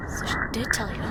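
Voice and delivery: soft unvoiced bitter aside; bitter whisper. Father mutters bitterly behind the door, whispered. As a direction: breathe it out bitterly.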